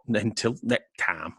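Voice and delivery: sleepy, slow and soft; fading with tiredness; tired. Real, not acted. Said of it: "I need to go to bed".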